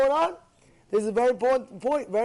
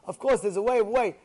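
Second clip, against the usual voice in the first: normal talking voice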